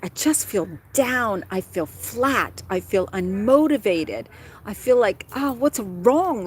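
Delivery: slow, drawn-out voice of feeling down; acted weary lament; mock dejected. Voicing someone feeling low.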